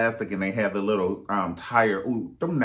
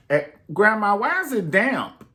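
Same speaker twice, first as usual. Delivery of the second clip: put-on higher, louder child voice; child asking grandma; 8 semitones higher, 4 dB louder than usual. Grandchild begging grandma for twenty dollars, high eager voice. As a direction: beg like a little grandchild.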